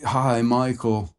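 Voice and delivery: put-on slow Rhodesian accent; a light Rhodesian accent. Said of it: "My Rhodesian accent sucks".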